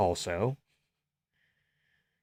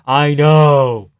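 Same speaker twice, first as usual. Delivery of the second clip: excited agreement; 9 dB louder than usual. Real, not acted. Eager agreement about Pepsi.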